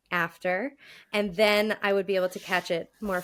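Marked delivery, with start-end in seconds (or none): 0.1-0.7 "After" with an open, relaxed first vowel, accent removed; corrected vowel. Shown as a demonstration. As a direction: carefully say "After" with a standard American short a. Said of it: "but then I'm like".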